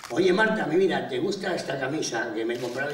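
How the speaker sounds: acted keen appeal to a girlfriend; eager boyfriend. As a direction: start with a bright hail, ease into the question. Novio llama a su novia.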